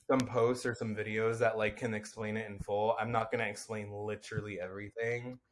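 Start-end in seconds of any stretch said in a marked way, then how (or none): 1.6-5.4 nasally, stuffy tone. Real, not acted. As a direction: talk through the nose. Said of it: "I can hear my, like, nasally voice coming out".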